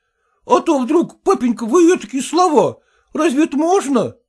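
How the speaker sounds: put-on high, pleading, indignant voice of a fussy young husband; whining son-in-law. Son-in-law protesting to his father-in-law, high whining indignation. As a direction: squeal your outrage up high.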